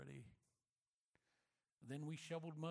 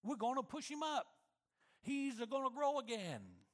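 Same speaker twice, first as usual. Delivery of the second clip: put-on light Italian accent, louder and higher, insisting; stubborn Italian papa, firm and sure; 5 semitones higher, 6 dB louder than usual. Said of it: "in his Italian accent".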